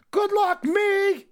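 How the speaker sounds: put-on little kid calling good luck after his future self, high excited cheer. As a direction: cheer him on from the sky, high and loud. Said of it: "the cheering section for him".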